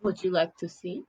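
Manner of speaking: put-on polite, careful Russian-accented question. Merfolk offering to show what's under the skin, Russian accent. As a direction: ask formally in a Russian accent. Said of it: "You faking that accent?".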